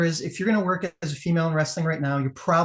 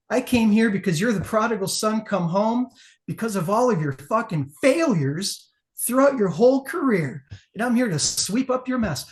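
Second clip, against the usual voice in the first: raised, slowed, cutting heel promo; wrestling promo taunt; 4 semitones higher than usual. Retold or imitated. Wrestler taunting rival at his own show, cutting promo. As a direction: sneer it down at the prodigal son. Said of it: "I said".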